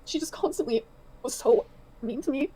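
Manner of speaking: slow, high, choked up; real tearful voice. Real, not acted. Woman says partner was mean to her, tearful. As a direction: get it out slowly through tears. Crying after reading the messages.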